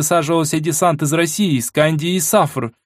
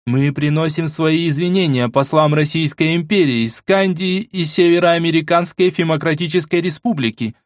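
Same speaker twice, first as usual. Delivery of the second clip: loud strong voice; 5 semitones higher than usual. Acted. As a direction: proclaim it to the whole hall. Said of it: "проговорила громким сильным голосом".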